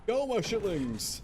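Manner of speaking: high, slow, grand command; hammed-up overlord order; grand villain command. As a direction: send your minions off like a cartoon villain. Sending minions off.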